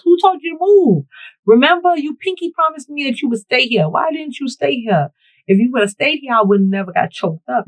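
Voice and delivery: high, loud, whiny mock scolding of the guard. Mock-scolding the security guard for leaving his post, high and whiny. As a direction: pile the blame on him in a high, wounded whine.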